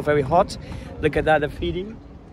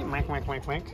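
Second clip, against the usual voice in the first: soft imitated duck quacking; duck quacks; 3 semitones lower, 8 dB quieter than usual. Showing the child the ducks, imitated quacks.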